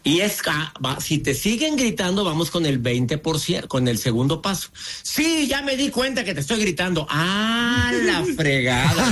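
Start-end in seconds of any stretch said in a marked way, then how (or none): 5.0-9.1 defiant yeller. Acted. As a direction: play the stubborn shouter snapping back. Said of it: "este es del veinte por ciento". (gritón desafiante fingido, agudo y exagerado)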